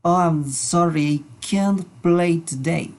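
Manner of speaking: slow, lightly acted apology to friends; example reply. Shown as a demonstration. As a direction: play a friend turning down an invite, slowly. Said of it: "tú puedes decirles".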